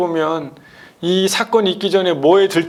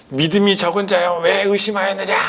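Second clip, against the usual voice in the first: mildly raised, reproachful questioning; mock scolding; 3 semitones higher than usual. Jesus rebuking sinking Peter, mild mock scolding. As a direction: imitate a stern rebuke, lightly done. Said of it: "소리를 지르면서 막 혼내면서".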